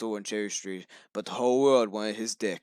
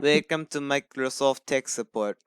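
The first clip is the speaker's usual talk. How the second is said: put-on Indian accent; 3 dB louder than usual. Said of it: "read everyone else in the same accent".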